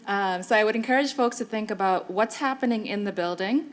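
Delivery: muffled, as if through a mask. Real, not acted. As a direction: speak through a covered mouth. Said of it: "sorry, I'm very muffled".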